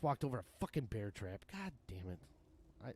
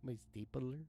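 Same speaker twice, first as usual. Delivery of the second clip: stapler guy impression; 5 dB quieter than usual. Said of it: "the stapler guy".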